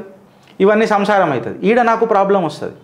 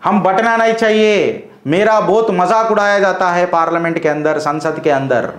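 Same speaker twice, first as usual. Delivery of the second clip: mock Owaisi speech; slower than usual. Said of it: "అని ఎన్నిసార్లు మీరు మాట్లాడలే".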